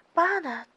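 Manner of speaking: a loud, sharp spoken slap noise; a loud onomatopoeic slap; slap sound. Acted. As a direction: snap out the smack of a slap.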